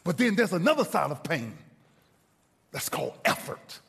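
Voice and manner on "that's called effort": hushed. Acted. Preacher dropping voice for effect.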